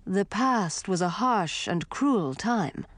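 put-on slow, looming old king threat; menacing ghost king. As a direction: threaten them slowly and coldly. Grandfather warns.

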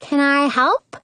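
lightly sweetened asking voice; extra sweet voice. A narrator's reading. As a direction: ask in a sugary sweet voice. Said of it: "I use my extra sweet voice".

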